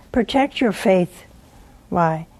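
ordinary talk

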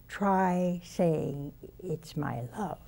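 soft, slow and gentle, like the Lord comforting. Retold or imitated. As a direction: say it softly, tenderly, slowing down on the last words. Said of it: "this very gentle voice".

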